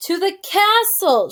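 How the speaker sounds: slow loud shout to a deaf listener. Acted. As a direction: spell it out loudly for a deaf ear. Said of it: "shouted the soldier".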